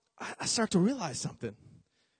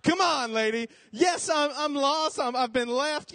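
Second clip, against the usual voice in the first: put-on exasperated kid; 7 semitones higher, slower than usual. Boy exasperated at the old lady, high whine. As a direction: come on, obviously.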